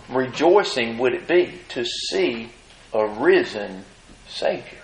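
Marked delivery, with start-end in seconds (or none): 4.3-4.8 breathy hushed word. Real, not acted. Awed climax of the point.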